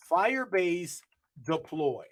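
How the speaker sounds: slow, deliberate dictation of the command; command read out slowly. Shown as a demonstration. Teaching the class to type the command, slow and deliberate. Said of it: "now we're gonna say".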